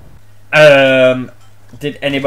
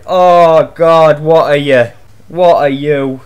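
loud shocked outburst; 6 dB louder, slower than usual. Real, not acted. Gamer shocked by opponent.

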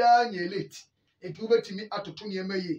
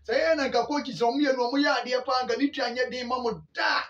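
heated rant; 2 semitones higher, faster than usual. Real, not acted. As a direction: push it out fast and hot. Shouts about paying the coach.

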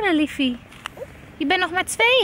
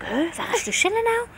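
puzzled mama; 5 semitones higher, 4 dB quieter than usual. Pretend. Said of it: "En dan kijk je en denk".

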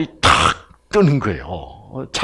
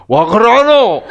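loud, higher Gyeongsang dialect challenge; 경상도 사투리로 크게 따지듯이; gruff Gyeongsang demand; 7 semitones higher, 8 dB louder, slower than usual. Retold or imitated. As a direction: bark it like a blunt Gyeongsang husband. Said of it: "남편이 뭐라 그래요".

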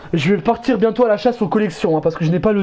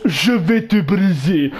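put-on slow, menacing Russian accent; russian accent in french; 2 semitones lower, much slower than usual. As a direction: threaten slowly in a Russian accent. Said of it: "il prend un accent russe". (accent russe lent et menaçant)

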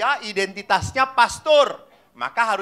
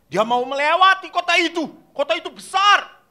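higher and louder, hamming up the story; animated storytelling; 7 semitones higher, 5 dB louder than usual. Retold or imitated. Catechist tells the children the Jesus story, animated. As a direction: tell it with big expression for the kids. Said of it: "bercerita harus dengan mimik".

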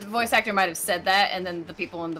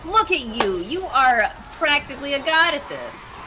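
teasing praise; 8 semitones higher, 5 dB louder, slower than usual. Real, not acted. Teasing over-the-top praise.

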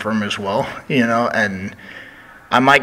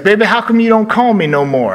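much higher, louder whiny put-on voice; Dusty Rhodes impression; 11 semitones higher, 6 dB louder than usual. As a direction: pout at the wrestler for not calling. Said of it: "He was like".

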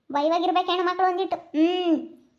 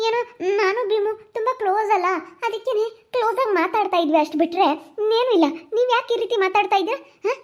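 indignant protest; 3 semitones higher than usual. Acted. Girl to scolding elders about being close to Bhimu, indignant protest. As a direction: protest your innocence, pitch lifted.

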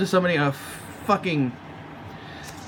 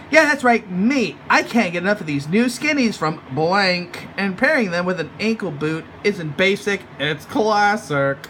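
mocking Lottie voice; 3 semitones higher than usual. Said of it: "And she's like".

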